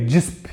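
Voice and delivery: disp said softly as one clipped syllable. Shown as a demonstration. Teacher demonstrating how far the voice goes in disp. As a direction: show that disp ends on the P. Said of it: "quando eu digo disp".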